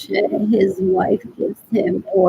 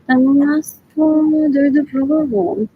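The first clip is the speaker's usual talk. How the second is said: disgusted; 5 semitones higher, 5 dB louder, slower than usual. Real, not acted. Disgusted rant about people.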